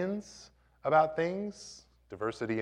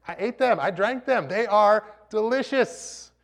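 emphatic; 8 semitones higher, 6 dB louder than usual. Real, not acted. Insisting he ate them.

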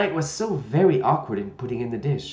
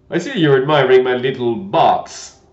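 friendly; 11 dB louder than usual. A narrator's reading. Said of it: "the knight said in a friendly tone".

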